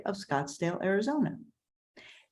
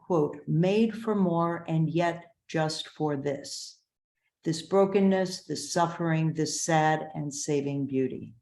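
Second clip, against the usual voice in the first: formal read-aloud with deliberate pauses; measured review reading. Acted. Reads a second review.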